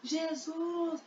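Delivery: high, soft pleading cry for help; a lightly voiced blind beggar pleading; blind man crying out. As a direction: beg Jesus desperately from afar. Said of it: "E continuou gritando".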